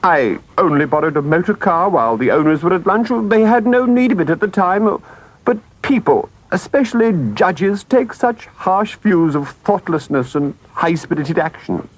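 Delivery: high-voiced, self-justifying Toad; Toad making excuses. Toad explaining the borrowed car to the driver, self-excusing.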